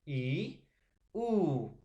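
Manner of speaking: I and U said short and light; closed vowel demo. Shown as a demonstration. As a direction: sound out the closed vowels with little effort. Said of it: "Al momento de pronunciar".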